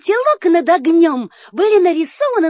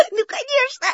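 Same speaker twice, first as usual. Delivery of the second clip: nervous laughter; 3 semitones higher than usual. Acted. Frightened nervous puppet.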